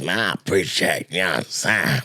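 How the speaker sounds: lightly voiced low drawling comic, a hint of Bay slang; Rico's voice. Comic imitating Rico's laid-back voice for his podcast friend. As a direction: ease into a laid-back buddy tone, barely off your own. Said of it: "his voice sound like this".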